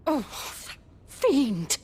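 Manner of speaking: spat in disgust. Acted. Hatred of the Patriarch.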